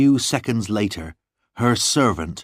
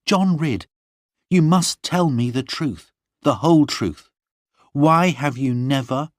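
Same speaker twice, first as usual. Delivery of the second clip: put-on higher girlish voice, earnest and insistent; a young lady pressing for the truth; Lorna demanding; 7 semitones higher than usual. Lorna questions John.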